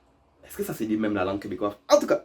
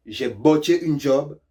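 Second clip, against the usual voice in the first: slow example sentence; 2 semitones higher, 3 dB louder, slower than usual. Shown as a demonstration. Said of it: "Ici, ça veut dire".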